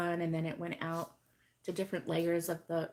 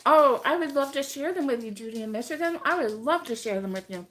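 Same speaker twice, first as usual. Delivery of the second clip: talking while eating a muffin; mouth full; 4 dB louder than usual. Real, not acted. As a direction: speak around a bite of muffin. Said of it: "So I am eating a bran muffin".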